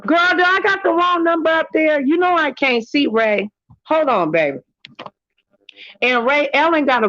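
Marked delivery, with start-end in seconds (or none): 0.0-4.6 voicing a caller. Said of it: "what'd she say?".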